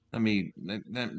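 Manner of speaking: ordinary delivery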